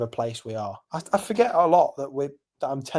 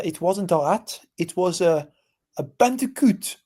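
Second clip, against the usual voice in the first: light mock French accent as the bartender; a half-hearted French accent, barely put on; bad French accent; 4 semitones higher than usual. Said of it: "bad French accent".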